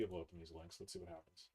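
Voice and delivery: audio cutting out, choppy; glitchy dropping connection; corrupted glitchy audio. Real, not acted. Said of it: "Your audio is cutting out a bit".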